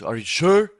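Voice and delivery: high, loud incredulous question; imitated disbelief. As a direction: act out a doubting friend, voice leaping up. Retold worried friend doubting the answer.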